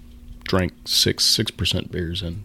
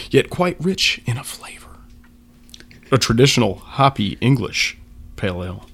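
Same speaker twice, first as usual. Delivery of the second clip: dramatic reading; 3 dB louder than usual. Acted. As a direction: read it like a proud label narrator. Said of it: "that is very well read".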